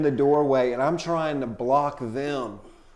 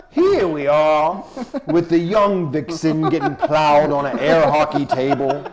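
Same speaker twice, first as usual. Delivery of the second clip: David Attenborough narration; 5 dB louder than usual. Retold or imitated. Telling the hosts about the game room, mock nature documentary narration. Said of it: "something David Attenborough could narrate".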